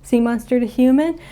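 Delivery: high, quick, eager questioning; excited. Retold or imitated. Luca to grandma about human town, excited. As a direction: gush it like an amazed kid. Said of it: "Luke is all excited".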